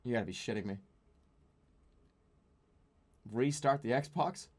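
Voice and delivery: defeated under the breath; muttered exasperation. Real, not acted. Reading the Xbox error, low and defeated.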